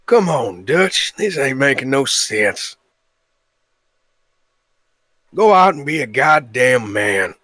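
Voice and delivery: drawn-out cowboy drawl; Arthur Morgan. Acted. Cowboy remonstrating with his gang leader, slow drawl. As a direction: plead with him like a weary cowboy. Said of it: "Arthur Morgan, very, very easy one".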